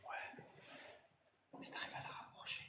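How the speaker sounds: whispering. Real, not acted. Whispering on ghost hunt.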